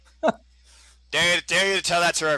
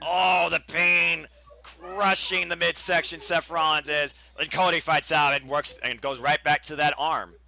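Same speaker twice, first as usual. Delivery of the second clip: play-by-play. Acted. Live play-by-play of the match.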